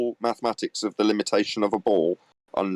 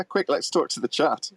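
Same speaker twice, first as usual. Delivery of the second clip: mock panic; 6 semitones higher than usual. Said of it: "what's the ham-handed segue".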